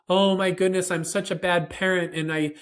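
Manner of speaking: mock overwrought parent babbling excuses; overwrought guilty parent. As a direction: ham up a flustered, over-apologizing parent. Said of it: "don't do all of that".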